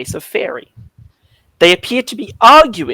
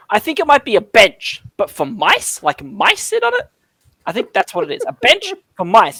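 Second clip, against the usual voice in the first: pixie voice; 5 semitones higher than usual. Acted. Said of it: "one of them says".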